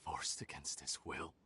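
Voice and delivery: low, slow scornful repeat; mocking echo. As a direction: throw their words back with contempt. Mocks the claim just made.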